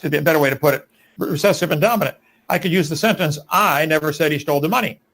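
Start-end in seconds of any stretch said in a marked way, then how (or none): 3.5-5.0 opening I leaned on, the rest thrown away; emphatic I, as if someone else said it; stress on I. Shown as a demonstration. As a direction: hit the word I hard at the start. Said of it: "the way it's emphasized".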